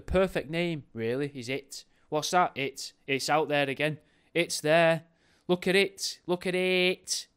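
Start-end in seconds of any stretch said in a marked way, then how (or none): 2.1-7.3 mock-excited calling out, high and loud; alarmed sighting. Onlooker spots the fog called It, alarmed. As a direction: point it out loudly, voice climbing.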